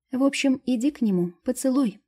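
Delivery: fairy ordering her friend to go kiss him; commanding. A narrator's reading. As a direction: order her to go, high and firm. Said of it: "приказала фея".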